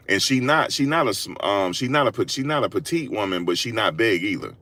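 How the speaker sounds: normal talking voice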